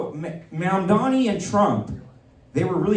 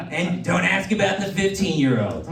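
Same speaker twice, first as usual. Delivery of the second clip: Trump impression; 3 semitones higher than usual. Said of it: "playing the part of the potential pedophile".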